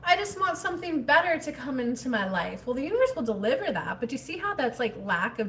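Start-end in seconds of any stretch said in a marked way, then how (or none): 0.0-2.7 higher mock wishful voice; mock wishful sigh. Mimicking a viewer waiting for better things, mock wishful. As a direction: lightly mimic someone just wanting better. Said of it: "you're like".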